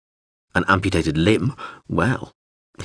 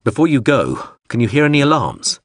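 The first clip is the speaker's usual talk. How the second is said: shouting; 5 semitones higher, 4 dB louder than usual. Acted. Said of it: "Hawser shouted over the drone's voice".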